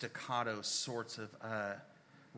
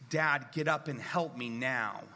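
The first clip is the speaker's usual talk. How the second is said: urgent demand; 5 dB louder than usual. Retold or imitated. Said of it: "it's a completely different thing".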